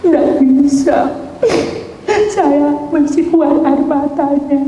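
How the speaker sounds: high, slow tearful protest; mock tearful. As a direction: act out crying too hard to stop. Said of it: "jangan menangis ya".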